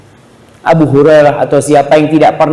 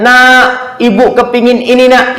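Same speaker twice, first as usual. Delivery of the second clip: calling mother; 9 semitones higher, slower than usual. Retold or imitated. Elderly mother calling her child.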